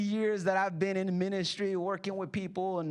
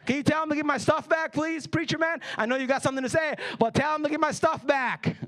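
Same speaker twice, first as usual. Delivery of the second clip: louder, higher nagging; pestering demand; 4 semitones higher, 4 dB louder than usual. Acted. Congregant interrupting the sermon about his brother, pestering. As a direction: badger the preacher to step in.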